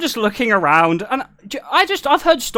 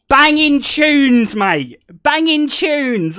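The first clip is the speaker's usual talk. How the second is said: loud, drawn-out mock cheer; imitated kids hollering their approval; imitating kids' approving holler; 5 semitones higher, 5 dB louder, much slower than usual. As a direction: stretch out each word, calling out high and loud. Quoting kids praising his music.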